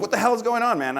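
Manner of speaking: high, loud mock disbelief; acted alarm. Teller reacts to sudden backhand in bar, acted alarm. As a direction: burst out in startled protest, played up.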